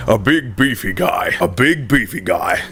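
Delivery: breathy voice. Shown as a demonstration. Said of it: "more breathy".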